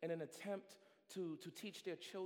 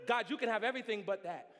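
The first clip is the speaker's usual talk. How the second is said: laughing mock plea; 5 semitones higher, 12 dB louder than usual. Mock clinging to debit card.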